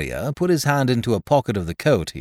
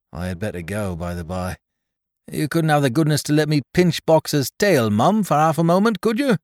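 put-on higher, fussy little old man voice; little old toymaker Caleb; 8 semitones higher, 5 dB louder than usual. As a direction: fret and ramble like a humble old toymaker. Caleb asks to pinch Boxer's tail.

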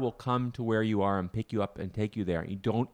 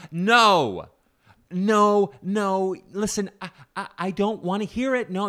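louder, higher flat refusal; stubborn refusal; 9 semitones higher, 8 dB louder, slower than usual. Retold or imitated. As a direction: shut him down, louder. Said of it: "He goes".

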